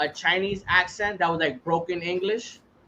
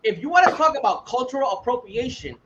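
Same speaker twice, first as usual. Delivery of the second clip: passionate rant; 3 semitones higher than usual. Real, not acted. Host ranting to friends about black accents, fired-up. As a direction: hammer each city home with conviction. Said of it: "he was on a good rant".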